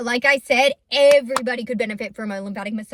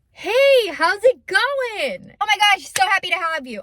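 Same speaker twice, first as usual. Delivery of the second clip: much higher and louder, gushing hello; bubbly greeting; 7 semitones higher, 4 dB louder, slower than usual. Retold or imitated. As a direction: greet her like an overjoyed host. Greeting at the front desk.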